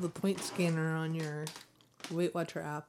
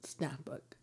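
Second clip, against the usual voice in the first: hushed whisper, like a secret; 3 semitones lower, 12 dB quieter than usual. Acted. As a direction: whisper the snack question. Playful hushed snack announcement.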